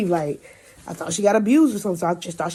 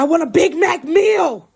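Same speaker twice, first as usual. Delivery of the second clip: mock very high, loud, stretched-out yell; 10 semitones higher, 5 dB louder than usual. Retelling a passenger ordering at the drive-through: imitating someone screaming. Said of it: "she's still screaming in the intercom".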